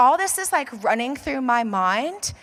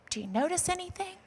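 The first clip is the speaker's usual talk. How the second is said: 1 hushed; 5 semitones higher, 10 dB quieter, faster than usual. Retold or imitated. Hushed question to the clerk.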